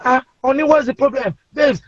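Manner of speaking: high-pitched imitation of wife; lightly acted wife asking what's wrong. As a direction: play the concerned wife, voice lifted. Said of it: "My wife then came in".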